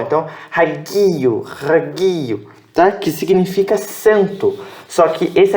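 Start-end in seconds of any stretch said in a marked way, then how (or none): 0.5-2.5 "raguio" with the last vowels merged into one sound; throaty opening, stressed "gui", short merged ending in "raguio"; final vowels as one. Shown as a demonstration. Teacher modelling the whole word twice, "raguio" ending in one sound. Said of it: "você pronuncia como um, um som só".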